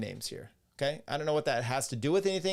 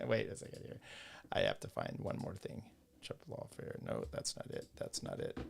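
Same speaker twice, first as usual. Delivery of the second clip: muttered aside; 11 semitones lower, 11 dB quieter than usual. Real, not acted. Muttering to himself off mic.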